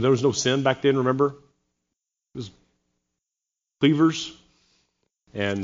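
mock nostalgia, said deadpan; sarcastic. Real, not acted. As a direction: play innocent about a supposedly perfect past. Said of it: "You know I'm being sarcastic".

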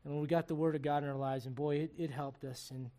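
earnest, steady prayer voice; closing prayer. Acted. Pastor praying over the church's marriages, earnestly. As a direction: pray sincerely over the congregation.

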